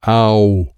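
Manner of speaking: loud drawn-out cry. A narrator's reading. Child asking how to play, crying out. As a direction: let out a held, loud cry.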